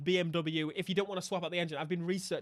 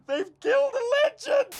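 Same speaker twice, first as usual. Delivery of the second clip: very high, loud wailing lament; mock anguished cry; 8 dB louder than usual. Streamer mourning the ruined M3, in a very high loud mock wail.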